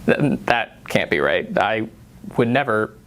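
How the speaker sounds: flustered denial. Acted. Candidate caught by his own staff, flustered denial.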